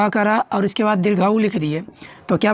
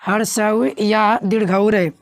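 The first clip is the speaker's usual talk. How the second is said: slow emphatic repeat; slower than usual. Shown as a demonstration. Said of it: "क्या रहे?".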